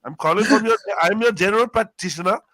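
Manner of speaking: insistent doctor. Retold or imitated. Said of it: "GP explaining".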